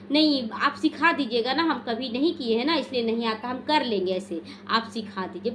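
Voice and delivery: gently humble, sweetly asking to be taught; loving humble request. Retold or imitated. Disciple humbly asking the elder to teach her, tenderly. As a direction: ask lovingly, like a willing student. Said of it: "बड़े प्यार से उनको बोलना है".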